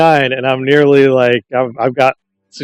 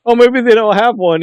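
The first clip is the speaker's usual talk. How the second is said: mock suggestion; 10 semitones higher, 4 dB louder than usual. Retelling sketch, second character.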